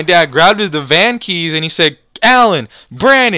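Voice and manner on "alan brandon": high, drawn-out summons; calling out. Retold or imitated. Dad summons Alan and Brandon to the car, calling out. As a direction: call the names as an imitated father.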